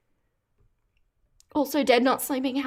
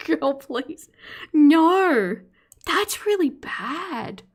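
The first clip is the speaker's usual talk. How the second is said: laughing cry; 6 semitones higher, 4 dB louder, much slower than usual. Real, not acted. Reacting to a crude comment.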